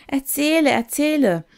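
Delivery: high, loud pleading call; children calling out. A narrator's reading. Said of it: "die Kinder klatschten in die Hände und riefen".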